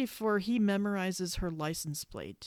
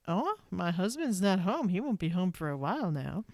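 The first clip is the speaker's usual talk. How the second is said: lightly voiced coy wife, a touch of flirtation; understated flirty imitation of the wife; mild mock flirting. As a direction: tease him with a hint of invitation. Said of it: "she's kind of flirting with him".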